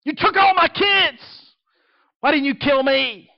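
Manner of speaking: high, loud anguished scream. Retold or imitated. Grieving wife screaming at God at night, anguished. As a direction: cry out in grief at God. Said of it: "I can hear her screaming".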